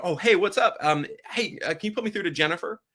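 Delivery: put-on breezy, like calling an old friend; casual familiar caller. Shown as a demonstration. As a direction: sound like you already know the person. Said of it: "just do this".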